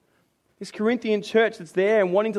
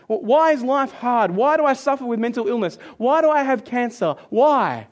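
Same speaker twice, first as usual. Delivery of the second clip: mock grumbling, raised pitch on each why; grumbling complaint; 3 semitones higher than usual. Preacher voices believers grumbling at God about life, mock complaint. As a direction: imitate someone complaining to God. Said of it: "grumbling is complaining against God".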